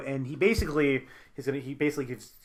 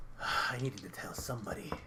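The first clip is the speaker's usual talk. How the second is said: menacing villain; 2 semitones lower than usual. Acted. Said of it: "he just looks at you and he goes".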